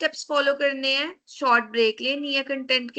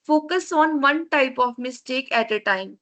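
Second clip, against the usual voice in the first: slow, deliberate reading; reading slide point; much slower than usual. Shown as a demonstration. Teacher reading a proofreading tip off the slide, slow. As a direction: read each word of the point out slowly.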